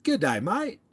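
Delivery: high cheery Aussie g'day mate; mock Aussie hello; amateur Aussie accent; Australian accent attempt. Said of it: "Do I sound like I'm from there?".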